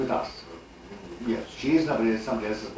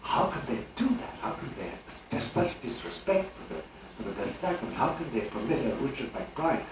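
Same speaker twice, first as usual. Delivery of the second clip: tortured lament; 4 dB quieter than usual. Retold or imitated. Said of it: "say to yourself torturedly".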